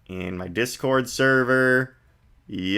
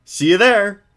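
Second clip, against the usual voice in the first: put-on higher, brighter girl voice; Maya voice; 7 semitones higher than usual. Streamer voicing Maya to the viewers, girlish and high. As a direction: play an eager young girl.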